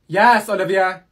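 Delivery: exasperated loud yes; annoyed shout. Acted. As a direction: snap back, fed up. Student snaps at nagging classmate.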